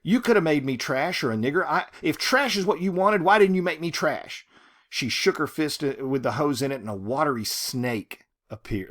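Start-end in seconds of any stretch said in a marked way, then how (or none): 0.0-4.5 angry accusation. Acted. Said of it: "She's just letting him have it".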